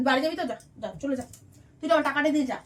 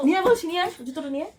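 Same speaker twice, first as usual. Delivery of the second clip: insistent order; 3 semitones higher, faster than usual. Acted. Employer orders shoes fetched.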